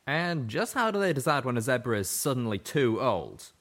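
Calamity's curious question. A narrator's reading. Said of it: "Calamity had asked".

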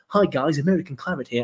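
badly faked American accent. Host imitating an American Claret fan, bad American accent. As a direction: attempt an American accent and miss. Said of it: "that's not even an American accent".

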